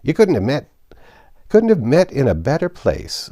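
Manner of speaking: put-on high, loud, creaky old man voice; old Joe, cackling old rascal. Old Joe greeting the thieves, high and gleeful. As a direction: wheeze it out like a gleeful old fence. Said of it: "said old Joe".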